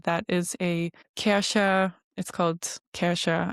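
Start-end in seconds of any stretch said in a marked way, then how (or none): 1.2-1.9 German pronunciation of Kärcher; German accent. Real, not acted. Mother naming the gadget that saved them, German accent. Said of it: "without a German accent". 2.9-3.5 German pronunciation of Kärcher; German accent. Real, not acted. Mother naming the gadget that saved them, German accent. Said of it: "without a German accent".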